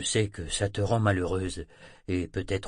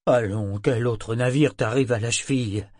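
brisk; 3 semitones higher, 5 dB louder than usual. Acted. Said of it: "demanda-t-il vivement".

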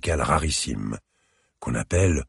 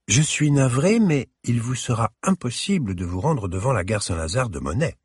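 slightly hissing, clear, elegant; 7 semitones higher than usual. A narrator's reading. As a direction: speak clearly and elegantly, sibilants slightly slurred. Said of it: "d'une voix un peu chuintante, claire, élégante".

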